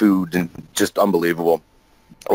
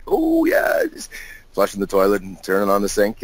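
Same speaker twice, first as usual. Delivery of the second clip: nervous cover-up; 2 semitones higher than usual. Retold or imitated. Caught hiding in bathroom.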